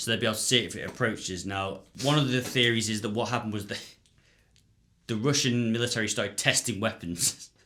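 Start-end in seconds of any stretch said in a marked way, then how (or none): 1.4-7.5 amused, talking through laughter. Speaker explains a favourite theory to a listener, laughing while speaking. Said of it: "I'm laughing because this is my favourite theory".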